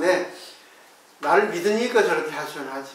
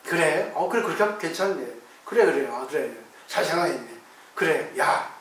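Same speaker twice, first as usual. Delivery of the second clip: soft agreeing murmur; 3 semitones lower, 4 dB quieter than usual. Retold or imitated. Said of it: "다 들어줍니다".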